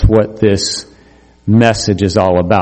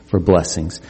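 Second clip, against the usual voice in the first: gentle voice of God; 3 semitones lower, 3 dB quieter than usual. Acted. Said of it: "God says".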